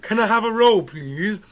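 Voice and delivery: two-sided chat in put-on British; mock British accent. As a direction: play both sides as British politicians. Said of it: "talking to myself in British humor".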